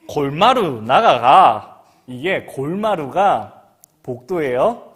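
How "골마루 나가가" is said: loud, very slow Gyeongsang 골마루 나가가; Gyeongsang dialect. Retold or imitated. Teacher sending pupils to the hallway, slow loud Gyeongsang. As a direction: drag out the order in dialect. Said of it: "경상도 말로".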